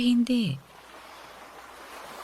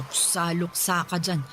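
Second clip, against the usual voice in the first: mapang-uyam na pangungutya; 4 semitones lower, slower than usual. Acted. Mother mocks daughter's mourning.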